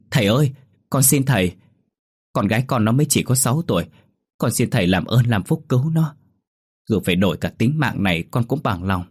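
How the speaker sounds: high begging cry to the shaman; pleading wail. Acted. Mother begs the shaman to save her daughter, crying out. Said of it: "Tôi đập cửa gào khóc".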